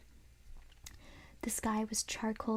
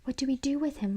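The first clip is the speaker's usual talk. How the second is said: louder urgent question; shouting over noise; 3 semitones higher, 5 dB louder, faster than usual. Acted. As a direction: shout over the dummy's threats. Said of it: "Lindy cried".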